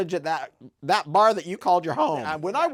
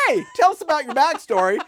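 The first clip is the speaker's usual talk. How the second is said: mimicking herself; 5 semitones higher, 4 dB louder than usual. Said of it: "when I finally tell you".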